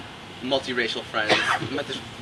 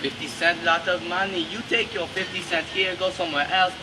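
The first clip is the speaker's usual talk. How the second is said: builds higher and louder, slowing, laughing through it; a shopkeeper's pitch that collapses into laughter; laughing shopkeeper rant; 9 semitones higher, 8 dB louder than usual. Retold or imitated. Shopkeeper lecturing the customer about savings, building into laughter.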